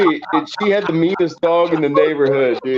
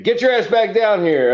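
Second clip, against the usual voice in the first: mock yell from dad; 8 semitones higher than usual. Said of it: "He's like".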